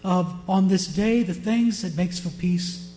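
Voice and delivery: loud, weighty proclamation of warning; preacher declaiming a prophecy; forceful scripture reading. Acted. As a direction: proclaim it loudly to a whole congregation. Reading Jesus's lament as judgment.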